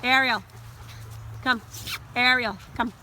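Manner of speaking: loud urgent name calls; calling out. Real, not acted. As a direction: call the dogs back from the dip. Calling dogs away from dip.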